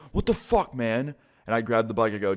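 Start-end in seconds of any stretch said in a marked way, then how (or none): 0.1-1.2 high startled cry from the fall; shocked yelp. Retold or imitated. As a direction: caught off guard, yelping. Thief thrown off the bike.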